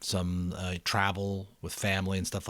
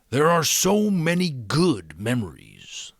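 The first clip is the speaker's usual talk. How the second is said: slow, lightly voiced old Giver; a hint of a kind old mentor, slowed; gentle reminder; 6 semitones higher, 9 dB louder, slower than usual. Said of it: "the Giver reminded Jonas".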